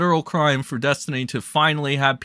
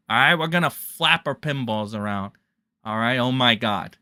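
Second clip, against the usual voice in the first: mock Diorio voice; 3 semitones higher than usual. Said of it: "That's my Diorio voice".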